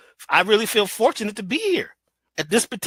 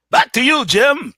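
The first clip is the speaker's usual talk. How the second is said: higher and louder, bright anchor sign-off; news anchor handoff; 4 semitones higher, 5 dB louder than usual. Shown as a demonstration. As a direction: toss it back to the studio like a TV anchor. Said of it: "talk like that in the commercials and in the news".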